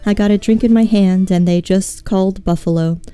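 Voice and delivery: lightly recited lyrics; mock poetic reading. Reading song lyrics to chat in a reading voice. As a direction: read the song lyrics like a poem. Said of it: "this is my reading voice".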